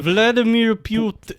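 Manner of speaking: Russian accent. Shown as a demonstration. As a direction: try names in a Russian accent. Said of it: "can do a Russian voice".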